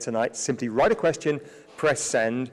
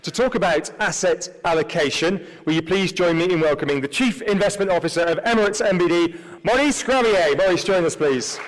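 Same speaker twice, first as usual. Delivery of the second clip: announcer introduction; 3 semitones higher, 3 dB louder than usual. Real, not acted. Host introduces the main speaker.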